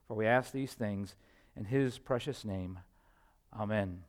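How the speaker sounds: pastoral prayer. Real, not acted. Pastor asks the Father to open hearts before preaching, earnest prayer.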